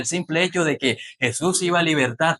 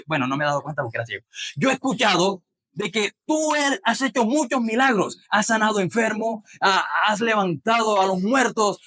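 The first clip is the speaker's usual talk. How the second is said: mild eager pleading; 6 semitones higher than usual. Retold or imitated. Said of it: "le está diciendo".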